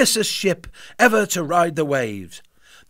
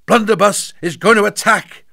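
alarmed; 5 semitones higher, 7 dB louder than usual. A narrator's reading. Boy warns the parrot.

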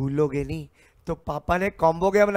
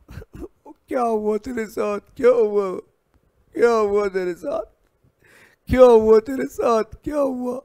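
concerned asking; 5 semitones higher, 6 dB louder than usual. Acted. Asking the crying Credit.

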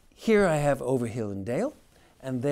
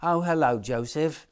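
put-on little girl greeting; 4 semitones higher, 6 dB louder than usual. A narrator's reading. Mary greets Joseph.

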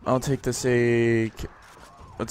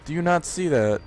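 higher-pitched sarcastic disbelief; 4 semitones higher than usual. Acted. Gamer arguing with the game that they have bombs, sarcastic. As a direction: question it with mock outrage. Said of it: "I'm being sarcastic".

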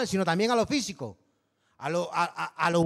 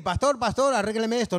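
mock plea; 4 semitones higher than usual. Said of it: "no vengas a llorar y a decir".

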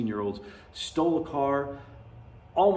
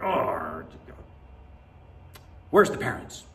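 mock rant; 3 semitones lower, slower than usual. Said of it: "that's my first rant of the day".

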